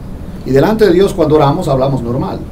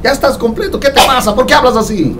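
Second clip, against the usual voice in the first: raised-pitch fatherly voice, lightly voiced; God speaking; 6 semitones higher than usual. God tells a child who shouts to talk normally. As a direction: gently chide a fearful child. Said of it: "y dice".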